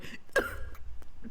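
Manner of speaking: hacking, throat-clearing cough; old man's cough. Acted. Old mage interrupted while casting, coughing. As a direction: cough like an aged wizard mid-sentence.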